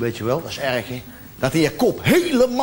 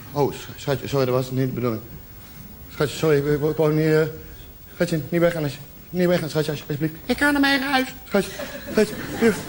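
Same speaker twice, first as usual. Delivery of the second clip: pleading apology; 5 semitones lower, 5 dB quieter than usual. Acted. Begging forgiveness after she cries.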